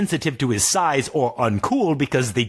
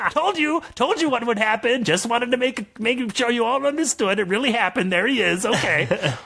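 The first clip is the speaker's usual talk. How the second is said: wizard voice; 12 semitones higher than usual. Acted. Morban voice continues.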